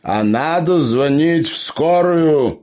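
high, slow, pompous announcement; self-important gnome. A narrator's reading. Gnome lectures the couple on calling an ambulance, slow and pompous. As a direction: state it like an expert. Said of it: "важно сообщил Эбер".

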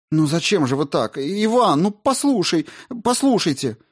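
high, loud, frightened pleading. A narrator's reading. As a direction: beg in panic. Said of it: "Маргарита испуганно затараторила".

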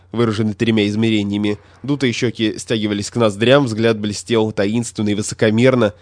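usual speaking voice

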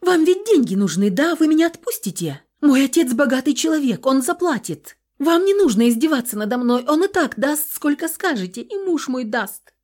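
high, loud begging, slowing at the end; desperate pleading. A narrator's reading. Captive girl begging thugs to take the ransom, desperate. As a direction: bargain for your life in tears.

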